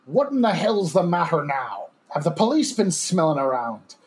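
put-on a light, half-hearted coarse Irish accent. Reading a body snatcher's quote to his cohost in a mild coarse Irish accent. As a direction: read the quote in a mild rough Irish brogue. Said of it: "my best coarse Irish accent".

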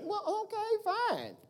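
soft resigned okay; resigned quiet. Acted. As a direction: let it drop, soft and resigned. God's resigned reply.

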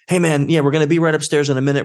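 breezy fast fake phone chatter; fake phone call. Talking on his phone while walking into the bank, breezy and fast. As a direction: act casual on a pretend call. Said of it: "And I'm like".

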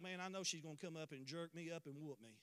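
low, hushed imagined worry; dreading aside. Retold or imitated. Son imagining his mother coming up to whoop him, dreading aside.

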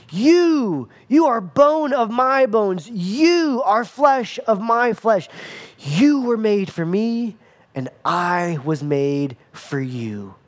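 a hint of a lovestruck man serenading his bride; tender serenade. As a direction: croon it to her, a lightly voiced smitten Adam. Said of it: "He's singing about her".

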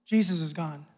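hushed repeat. Shown as a demonstration. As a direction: let it sink in, almost a hush. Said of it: "repeated softer".

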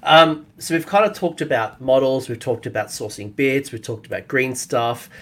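hoarse, strained voice; losing voice. Real, not acted. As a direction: speak through a losing voice. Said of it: "I'm losing my voice".

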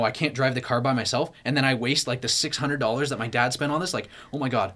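retold panic. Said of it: "all these irrational thoughts".

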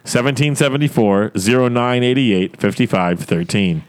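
slow, careful read of the digits; slow dictation. Shown as a demonstration. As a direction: dictate slowly so people can write it down. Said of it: "Just slow, slow down just a little".

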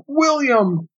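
slow, high narrated call; crying out. A narrator's reading. Another onlooker claiming the changing Martian, crying out. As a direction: stretch the name out in a high call. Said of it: "cried LaForge, 'Alice!' another".

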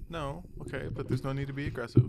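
loud, exasperated rebuke. Real, not acted. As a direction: raise your voice, fed up. Repeats rebuke much louder.

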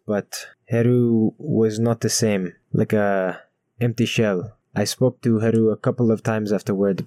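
lightly voiced somber brother; solemn NPC voice.

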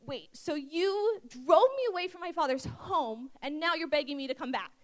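indignant disbelief. Acted. Jephthah confronts the tribe that drove him away, indignant disbelief. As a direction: throw it back at them in mock disbelief. Acts out Jephthah challenging those who rejected him.

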